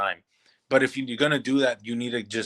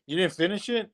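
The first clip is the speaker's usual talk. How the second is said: surprised; 7 semitones higher than usual. Real, not acted. Shocked at co-host not finishing film.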